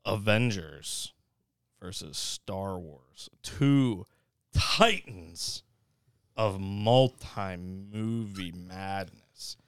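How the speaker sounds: slow match-up announcement; big, drawn-out bracket intro; announcer. Acted. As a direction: draw out each title like a ring announcer. Announces the next movie match-up.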